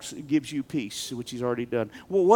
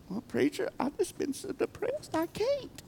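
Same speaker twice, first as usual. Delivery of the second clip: mock despondent; 13 semitones higher, 12 dB quieter than usual. Imitating a depressed congregant.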